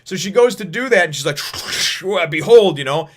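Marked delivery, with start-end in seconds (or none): 1.4-2.2 imitated weapon noise. Imitates the weapon being deployed. 2.3-2.8 loud, high dramatic reveal; grand proclamation. Retold or imitated. Nami unveiling her weapon to the villain, grand proclamation.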